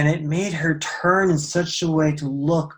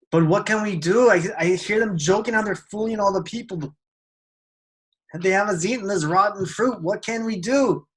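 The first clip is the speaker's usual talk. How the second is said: high-pitched, hurried worry; distressed plea; 5 semitones higher than usual. Acted. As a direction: plead for help with rising urgency. Shocked woman pleads to old man.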